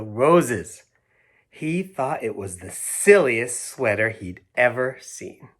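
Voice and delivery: slow, expressive picture-book reading; reading to children. A narrator's reading. Reading the story to Hazel and Pearl, slow and expressive. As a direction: read it like bedtime storytime for kids.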